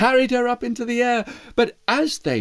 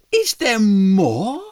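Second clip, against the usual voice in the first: mouse voice; 4 dB louder, slower than usual. Acted.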